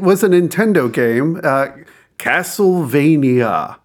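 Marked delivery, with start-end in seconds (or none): 2.2-3.8 slow, grand title reveal; dramatic announcement. Acted. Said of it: "I had to do the hand gesture when I said it".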